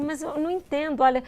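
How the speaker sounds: a hint of a worried old man blurting it out; rushed, baffled pleading; anxious old man. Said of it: "ele ficou muito assim".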